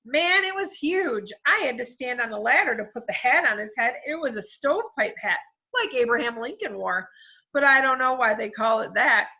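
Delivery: put-on big, booming kid voice; loud boy voice. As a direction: talk like a freight train. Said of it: "Mac's voice was like a freight train".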